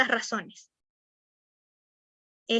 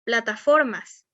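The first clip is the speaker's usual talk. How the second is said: "Plataformas" slowly, stretched on FOR, then falling; slow, deliberate "Plataformas", leaning on FOR; drawn-out example word; slower than usual. Shown as a demonstration. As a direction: say "Plataformas" slowly for pupils to find the stress. Word repeated slowly for stress question.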